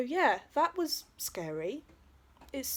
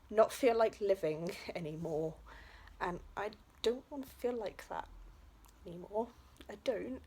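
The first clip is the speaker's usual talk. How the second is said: emotional; 3 dB quieter than usual. Real, not acted. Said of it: "I'm getting a bit emotional".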